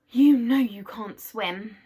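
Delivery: slow, loud scolding; firm loud warning. Acted. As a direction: tell it off slowly and firmly. Scolding the clock.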